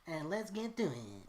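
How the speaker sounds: YouTuber voice. Retold or imitated. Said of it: "people being like".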